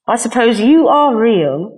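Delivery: slow, lightly voiced shy bunny; a hint of a timid little toy; little rabbit voice. A narrator's reading. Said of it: "said the rabbit".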